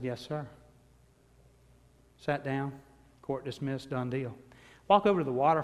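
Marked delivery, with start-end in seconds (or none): 0.0-0.5 softer, meek reply; timid yes sir. Retold or imitated. Teenager answering the judge in a meek hush. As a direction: answer like a scared boy. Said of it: "I said".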